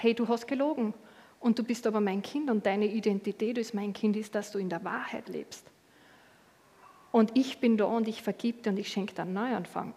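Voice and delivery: soft, tender and forgiving; name the lie gently, then offer a fresh start; God's gentle correction. Retold or imitated. God gently corrects his child, softly forgiving. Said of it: "Gott kommt auch und sagt".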